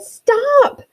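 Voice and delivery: sharp high shouted stop; sudden loud high cry of stop; parents yelling. Acted. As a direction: yell it like parents catching a climbing toddler. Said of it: "her parents yelled".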